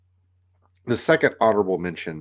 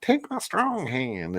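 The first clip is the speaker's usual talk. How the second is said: a bit higher and slow, half-hearted imitation; lightly raised running-joke quote; 7 semitones higher, slower than usual. Buddies' running joke, mildly raised and slow. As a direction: quote it casually, only a hint of the squeak. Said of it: "had this running joke about".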